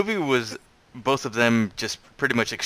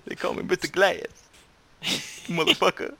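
Mister Glass impression; 7 semitones higher than usual. Quoting Unbreakable line.

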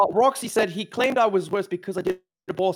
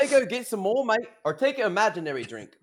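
mock British accent; 2 semitones higher than usual. Friend telling mate to drink, mock British accent.

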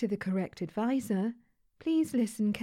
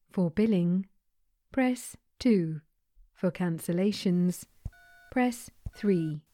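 automated phone menu. Acted.

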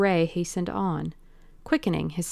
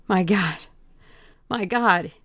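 cried; 4 dB louder than usual. Acted. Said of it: "he cried".

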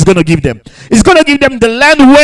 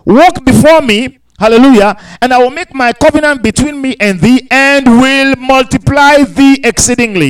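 lifted pulpit reading voice; scripture reading; 3 semitones higher than usual. Acted. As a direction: proclaim the verses to the congregation. Preacher reads scripture aloud.

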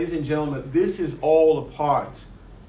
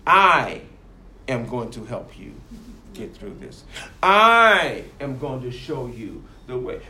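a controlling whisper of a promise; sinister slow promise; 3 semitones lower, 3 dB louder than usual. Retold or imitated. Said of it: "pretend to befriend them".

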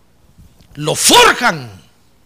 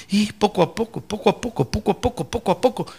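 softening repetition; 7 dB quieter than usual. Acted. Gentle repetition of slow progress.

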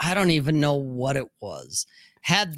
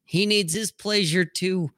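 higher, doting coo, lightly acted; indulgent mom; 4 semitones higher than usual. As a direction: play the mom shielding the dog. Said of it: "Mom's like".

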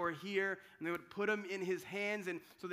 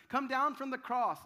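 louder, higher jeer; scornful dare; taunting mocker; 5 semitones higher, 6 dB louder than usual. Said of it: "This is what they said to Jesus".

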